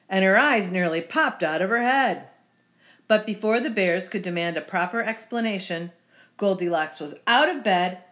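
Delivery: lively, well-projected storytelling; storybook narration. A narrator's reading. Reader telling children the Goldilocks tale, lively storybook narration. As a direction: read it out like a picture book.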